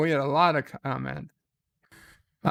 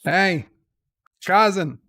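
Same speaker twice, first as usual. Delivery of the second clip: calling out; 5 dB louder than usual. Acted. Calls cousin over to help.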